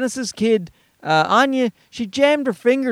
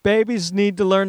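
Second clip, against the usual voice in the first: mocking quote. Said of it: "I hate that when they just".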